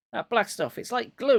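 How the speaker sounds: put-on boy crying out about the glue; cried out. A narrator's reading. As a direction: cry out in disgust. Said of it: "he cried".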